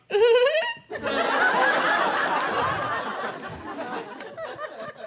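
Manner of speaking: high, closed-mouth flirty giggle; coy little hummed giggle; hot person giggle. Retold or imitated. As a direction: imitate an attractive stranger's giggle. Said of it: "it was a hot person giggle".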